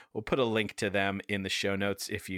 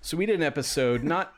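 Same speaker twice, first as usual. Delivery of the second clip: trying not to laugh; 6 semitones higher, 4 dB louder than usual. Real, not acted. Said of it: "He's, he's scared".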